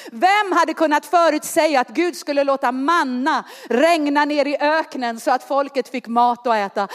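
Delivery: ordinary delivery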